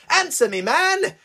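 angry demand. Acted. Maxine on top of him, high angry command. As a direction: force the answer out of him.

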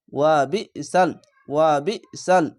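"ওয়া বিইসাল" with a catch on বি, twice; jolting emphasis. Shown as a demonstration. Teacher repeats the word for learners, with a jolt. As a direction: push the বি, then land on সাল. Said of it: "এখানেও ঝোঁক মেরে পড়বেন".

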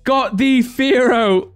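excited shout. Real, not acted. Host cheers the seller's Fearow pull, laughing with delight. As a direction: squeal at the big pull. Pulls a great card live.

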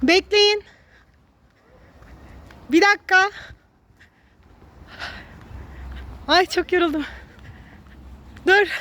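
panting between words; winded from running after them; out of breath. Real, not acted. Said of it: "Nefes nefese kaldım".

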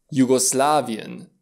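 "Jugoslavien" slowly, starting with a y glide. Shown as a demonstration. Teacher gives a Germanic example, "Jugoslavien" with J like iarbă. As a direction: say "Jugoslavien" as "Yugo-slavien". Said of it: "Se pronunță precum în cuvântul românesc iarbă".

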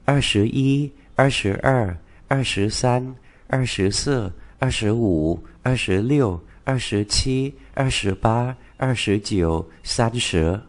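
teacher modelling the Chinese numbers in order; Mandarin twenties. Shown as a demonstration. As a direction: read the Mandarin twenties with clear tones. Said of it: "Chúng ta cùng đọc lại một lần nữa".

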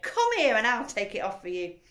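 loud, impatient wife voice; bossy wife. A narrator's reading. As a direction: order him over loudly. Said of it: "his wife said".

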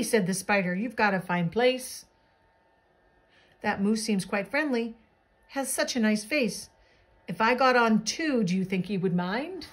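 lilting rhymed picture-book narration; animated bedtime-story reading; storybook read-aloud. A narrator's reading. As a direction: read a rhyming tale to children.

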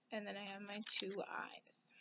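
a quick breathy aside while cutting letters; whispered aside. Real, not acted. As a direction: whisper it to yourself, unvoiced. Teacher murmurs aside while cutting.

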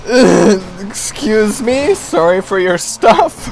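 stretched, giggling excuse me; slow laughing excuse me; laughing apology. Real, not acted. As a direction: apologise while trying not to laugh.

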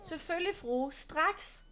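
bow and scrape, playfully; mock servant. Maja plays obliging servant.

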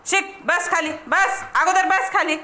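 short, insistent commands in a high voice; pet commands. Real, not acted. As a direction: order a pet to sit before feeding. Ordering pet to sit for food.

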